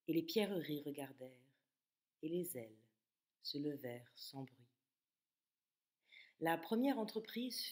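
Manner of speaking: measured poetry reading with long pauses between phrases; poem recitation. Acted. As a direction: recite it phrase by phrase, letting endings fall away. Reads the poem aloud. (récitation de poème, posée, avec des silences)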